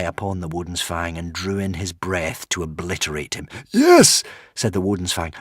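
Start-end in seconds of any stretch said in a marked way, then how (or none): 3.7-4.2 very high, loud little dragon voice; tiny creature suddenly bold; brave squeak. A narrator's reading. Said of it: "brave once more".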